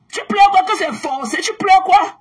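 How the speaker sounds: lancé haut et fort pour se moquer; crie-lui sa question moqueuse; raillerie criée. Real, not acted. Mocking critics who cry. (cri moqueur aux détracteurs)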